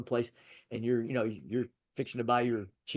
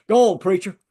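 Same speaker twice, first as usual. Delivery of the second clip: cheering on; 6 semitones higher, 12 dB louder than usual. Retold or imitated. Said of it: "the guy goes".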